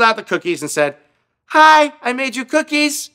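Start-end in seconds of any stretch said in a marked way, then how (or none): 1.5-3.1 voiced high and chirpy, louder; eager nervous hello, pitched way up; bright high greeting. Becky chirping brightly at the garbage man.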